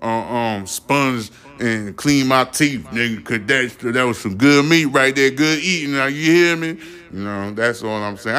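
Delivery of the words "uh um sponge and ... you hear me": higher-pitched Southern shark voice; hammed-up Southern good-old-boy shark; Southern accent. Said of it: "they got that goddamn Southern accent".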